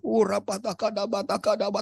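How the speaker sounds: retold burst of glossolalia; speaking in tongues. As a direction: demonstrate praying in tongues, pitch lifted. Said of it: "saya mulai berbahasa roh".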